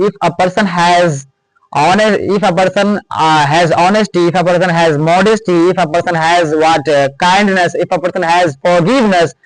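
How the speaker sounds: slow, deliberate list of examples; slow dictation. Shown as a demonstration. Teacher listing examples for students, slowly. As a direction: give each example slowly to the class.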